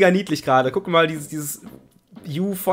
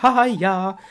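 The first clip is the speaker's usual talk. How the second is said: disguised character voice; 6 semitones higher than usual. Acted. Voicing a game character.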